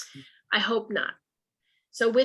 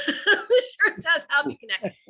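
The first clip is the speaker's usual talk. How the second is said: sarcastic; 4 semitones higher than usual. Real, not acted. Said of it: "Oh, I'm sure".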